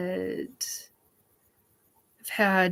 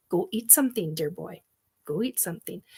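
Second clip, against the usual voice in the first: softer go eat something; soft insistence; 7 dB quieter, faster than usual. Real, not acted. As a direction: nudge him gently to eat. Telling Derek to eat.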